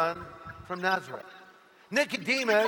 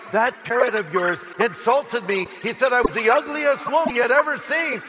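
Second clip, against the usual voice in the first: outraged complaint; 3 semitones higher, 4 dB louder than usual. Acted. Outraged woman reporting the parrot to the manager, indignant. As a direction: complain like an insulted customer. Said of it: "the woman was outraged".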